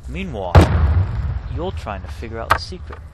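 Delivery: lightly done Cockney-ish Caine voice; Michael Caine impression. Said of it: "doesn't sound like a Bristol accent".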